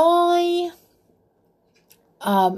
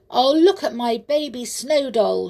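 cried out; 5 semitones higher than usual. Acted. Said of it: "she cried".

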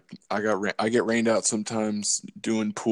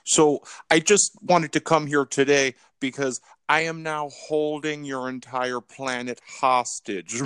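lightly voiced gloating villain; Dr. Evil; 2 semitones higher than usual. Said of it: "I lost this accent".

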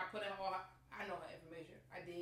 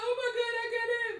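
higher, louder joyful exclaim; excited; 13 semitones higher, 8 dB louder than usual. Retold or imitated. Opening the envelope, thrilled exclaim. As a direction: gasp it out happily.

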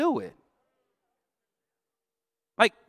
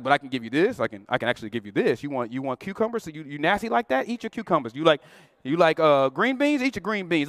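lower-voiced God, teasing and generous; God offering; 7 semitones lower than usual. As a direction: play God indulging picky eaters with a grin. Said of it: "God is like".

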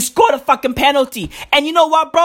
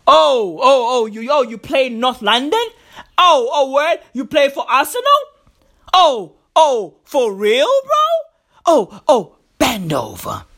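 taunting Russian players. Retold or imitated. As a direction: tease him, then growl the order. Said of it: "went up to fucking Mohamed El Neni and said".

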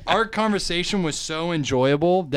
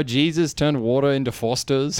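put-on playful Australian accent; mock Australian accent. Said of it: "also into Australian English".

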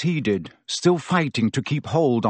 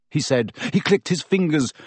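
ordinary delivery

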